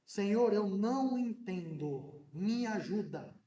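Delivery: slow, humble plea to God; sincere prayer. Shown as a demonstration. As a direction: pray it slowly and honestly. Exemplo de oração sincera. (oração lenta e sincera)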